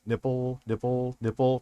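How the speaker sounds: flat droning monotone. Shown as a demonstration. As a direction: say each one evenly, no tune. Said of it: "that monotone voice that made it legendary".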